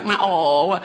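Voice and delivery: cat meow. Retold or imitated. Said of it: "My cat go".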